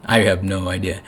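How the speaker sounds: mild bewildered admission; simple I don't know; plain shrug. Pretend. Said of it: "is for everyone to just be like".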